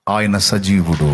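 low, slow, weighty proclamation; solemn declaration. Real, not acted. Preacher answers his own question to the congregation, solemn and low. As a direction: state it slowly and deep, with weight.

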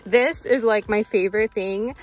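speaking through a face mask; muffled voice behind a mask. Real, not acted. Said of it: "I'm talking through my mask".

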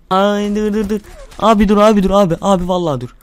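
loud, high panicked yell of dur; yelling stop. Real, not acted. Gamer yells dur in panic during a firefight, real shout. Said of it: "dur lan diye bağırıyorum".

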